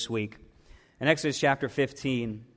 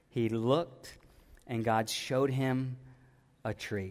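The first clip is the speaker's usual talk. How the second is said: hushed retelling; 2 semitones lower, 6 dB quieter, slower than usual. Shown as a demonstration. Preacher softly retelling the verse to the church, hushed. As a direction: drop to a near hush, drawing them in.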